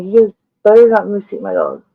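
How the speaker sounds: warning shout. Retold or imitated. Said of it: "I was like".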